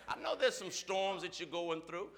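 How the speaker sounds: ordinary delivery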